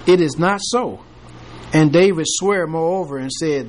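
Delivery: measured King James reading voice; scripture reading. Acted. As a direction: read the verses steadily to the class. Reads scripture aloud to class.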